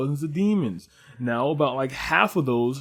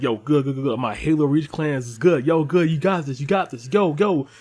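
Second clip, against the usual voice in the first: hyped friends; 3 dB louder than usual. Retold or imitated. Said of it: "everyone's blowing up my phone, like".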